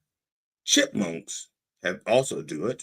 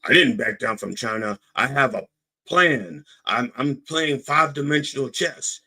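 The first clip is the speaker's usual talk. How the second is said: puffed-up Trump; 4 semitones higher than usual. Retold or imitated. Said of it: "Trump puffs up".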